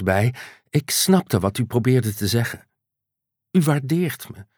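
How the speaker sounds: lightly voiced tearful Patricia; a hint of teary woman; tearful young woman.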